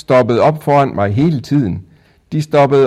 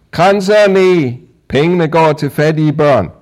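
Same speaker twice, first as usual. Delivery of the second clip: shouting; 7 semitones higher, 4 dB louder than usual. A narrator's reading. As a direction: call out wares to passers-by. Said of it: "råbte jeg".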